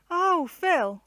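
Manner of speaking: startled exclamation on finding her brother. A narrator's reading. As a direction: jump at seeing him suddenly. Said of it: "she started".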